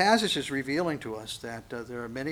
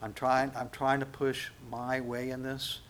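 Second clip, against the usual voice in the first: humble prayer; 4 dB quieter than usual. Retold or imitated. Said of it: "turn to the Lord and say".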